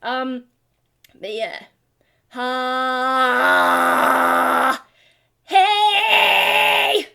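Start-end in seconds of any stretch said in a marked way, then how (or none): 2.3-7.1 very high, loud belted hey; high shout. Shown as a demonstration. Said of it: "I can go higher".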